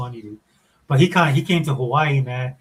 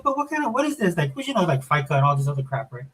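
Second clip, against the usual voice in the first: confused daughter; 3 semitones higher than usual. Retold or imitated.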